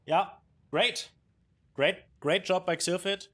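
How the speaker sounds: high, loud excited cheer; excited praise. Real, not acted. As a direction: hype the winner up. Caster praising winner after game.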